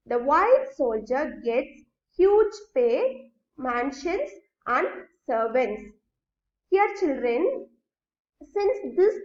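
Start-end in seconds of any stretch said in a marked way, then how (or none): 0.1-5.9 slow, deliberate, word by word; measured teacher dictation. Shown as a demonstration. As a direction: spell it out slowly for the class to copy. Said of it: "See how it can be transformed".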